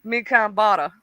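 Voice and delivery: careful Patois attempt with country tinge; learner's Patois. Shown as a demonstration. Learner retrying the phrase for her teacher. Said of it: "Let me hear".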